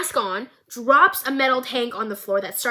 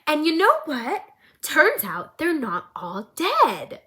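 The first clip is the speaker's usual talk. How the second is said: sly Jinx; 5 dB louder, much slower than usual. Retold or imitated. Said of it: "And Jinx goes".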